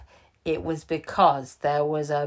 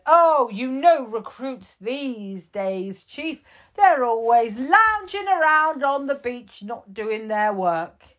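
high, casual excuse-making voice; breezy Shouty Pants; 6 semitones higher, 4 dB louder than usual. Acted. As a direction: shrug it off, blame the recruits.

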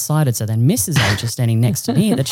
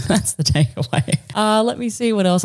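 laughing; 8 semitones higher than usual. Real, not acted.

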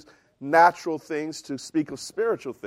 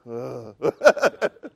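deflated "ugh"; 6 semitones lower than usual. Retold or imitated. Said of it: "damper on my celebration".

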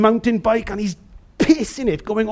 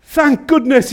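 mildly raised voice of relief; relieved call; 2 semitones higher than usual. Acted. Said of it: "he shouts out".

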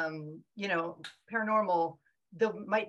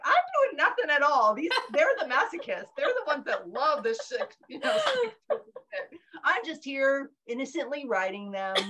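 mock-innocent protest through laughter, higher; laughing; 6 semitones higher, 3 dB louder than usual. Author answering readers about her cruelty, laughing higher. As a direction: play innocent while laughing. Jokingly defends herself to readers.

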